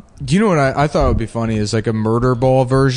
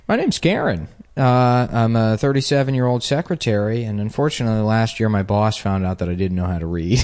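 PSA voice; 3 semitones lower, 3 dB quieter than usual. Retold or imitated. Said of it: "And it was always like".

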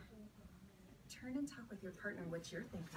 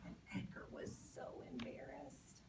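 hushed whisper; 6 semitones lower, 7 dB quieter than usual. A narrator's reading. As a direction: whisper it like an embarrassing secret. Whispered narration.

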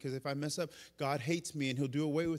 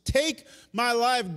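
slow, drawn-out loud plea; 7 semitones higher, 8 dB louder, slower than usual. Retold or imitated. Elijah begging God, slow exhausted plea. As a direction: stretch each word, exhausted. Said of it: "he goes".

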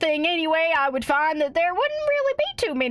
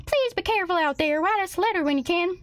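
mom voice; 4 semitones higher, faster than usual. Acted. Voices worried mom in game.

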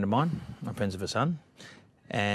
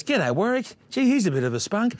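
put-on higher, louder girlish greeting; imitating Kylie; 11 semitones higher, 5 dB louder than usual. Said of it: "And Kylie goes".

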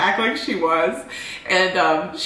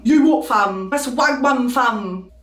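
quick mock London girl impression; London girl accent. Shown as a demonstration. Asked how a London girl sounds, she answers in a light London accent. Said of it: "How does a London girl sound?".

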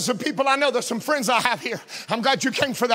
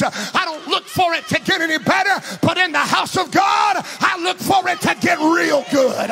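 full-force Pentecostal preaching; 3 semitones higher than usual. Acted. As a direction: build the sermon up toward a shout. Preaching run, nobody names it.

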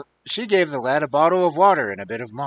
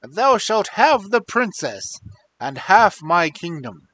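put-on raised, commanding old king; stern king voice; 3 semitones higher, 5 dB louder than usual. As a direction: proclaim it like a king. King speaks in the story.

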